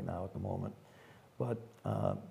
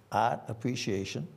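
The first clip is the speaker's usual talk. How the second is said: r-less Boston "art"; Boston accent; 3 semitones higher than usual. Real, not acted. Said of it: "my Boston accent".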